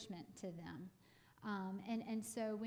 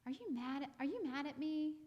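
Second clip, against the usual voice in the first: anxious, pleading questions, pitch a bit higher; mock pitiful parent; 4 semitones higher than usual. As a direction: imitate a worried parent fishing for feelings. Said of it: "Let's not be that pitiful".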